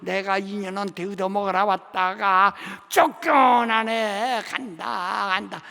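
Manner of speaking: loud, slow lament of a ghost being evicted; bitter ghost wailing its exit. Retold or imitated. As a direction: moan and complain as you go. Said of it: "아주 그냥 시원시원하죠".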